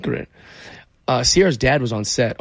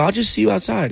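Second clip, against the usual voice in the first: awkward dodge; 8 semitones higher than usual. Retold or imitated. Nervous deflection.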